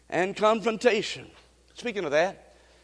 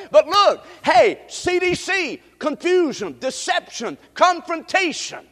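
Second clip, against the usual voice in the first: higher, deliberate sermon delivery; emphatic preaching; 10 semitones higher, 5 dB louder, slower than usual. Acted. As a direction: hammer out the sermon points one by one. Returns to preaching.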